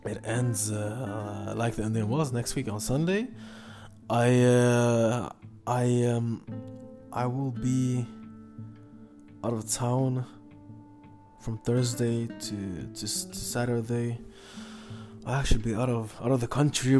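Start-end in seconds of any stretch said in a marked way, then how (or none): 4.1-14.2 hesitant, stop-start phrasing; stumbling, searching for words; halting speech. Real, not acted. Stumbling over travel plans.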